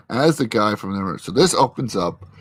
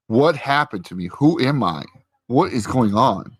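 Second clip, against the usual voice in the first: retold upset demand; 3 semitones higher than usual. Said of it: "Vision is not happy".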